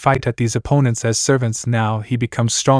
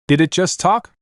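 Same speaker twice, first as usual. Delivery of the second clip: raised, disbelieving question; surprised; 6 semitones higher than usual. A narrator's reading. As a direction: ask it in disbelief. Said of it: "he said in surprise as well".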